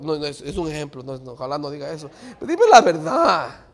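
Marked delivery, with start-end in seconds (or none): 2.4-3.6 louder, higher acted plea; insistent demand. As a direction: press them hard for honesty. (exigencia insistente, alzando la voz)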